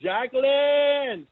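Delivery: long, drawn-out call of a name. Real, not acted. Spotting Jacqueline in the background, calling out to her slowly. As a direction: stretch the name out like a hello across the room. Spots friend in background, calls out.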